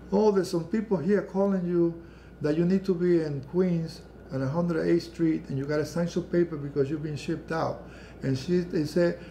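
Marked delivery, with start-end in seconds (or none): 0.1-7.8 a touch of frantic alarm, lightly voiced; retold hysterical mother. Mother phoning son at work, mildly frantic. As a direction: imitate a panicked mother, understated. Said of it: "My mother was hysterical".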